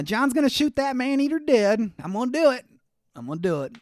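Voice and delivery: put-on Russian-sounding accent. John vows to shoot the lion in a failing, Russian-tinged accent. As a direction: boast it in a wobbly Russian-ish accent. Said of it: "It's just Russian sounding".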